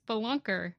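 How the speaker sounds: "spelunker" with a short, unstressed first vowel; "spelunker" without any long ee; corrected pronunciation. Shown as a demonstration. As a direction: say "spelunker" as spuh-LUNK-er. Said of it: "Why do you say it so weird?".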